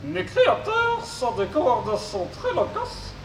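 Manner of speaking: high robot voice with garbled consonants. Acted. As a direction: mangle the consonants like a glitchy robot. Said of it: "souffre d'une pathologie vocale".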